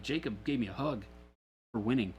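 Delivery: a soft, pitiful little-orphan plea; lightly voiced meek boy fishing for sympathy; poor orphan voice. Paul reporting Jacob's hug to Jason, meek orphan plea. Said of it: "You make him sound like a poor, British orphan".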